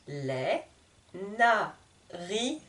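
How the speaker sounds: "narines" said softly with no final S; silent S. Shown as a demonstration. Teacher shows the silent plural S. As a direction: leave the S of "narines" unsounded. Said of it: "Le S est muet, je n'entends pas".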